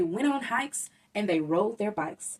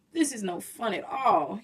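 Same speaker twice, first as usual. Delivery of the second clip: moaned. Acted. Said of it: "he moaned".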